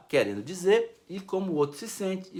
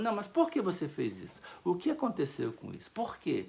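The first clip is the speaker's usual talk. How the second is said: calm asking why; 7 dB quieter than usual. Shown as a demonstration. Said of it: "Eu falo".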